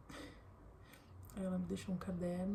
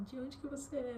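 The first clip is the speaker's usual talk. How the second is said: imitating an eager older lady, pitched higher; excited question; 6 semitones higher than usual. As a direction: ask it high and delighted, like meeting someone new. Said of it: "e ela perguntou".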